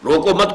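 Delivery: "روکو مت" run together as one unit; no break between "روکو" and "مت"; words joined. Shown as a demonstration. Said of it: "کو جمع کر دیا". ("روکو" اور "مت" کو ملا کر)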